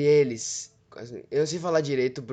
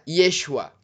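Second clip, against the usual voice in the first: put-on a louder Israeli-accented "Yeshua"; imitated Israeli accent; 6 dB louder than usual. Showing viewers the Israeli name for Jesus. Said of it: "parecido com o sotaque israelense".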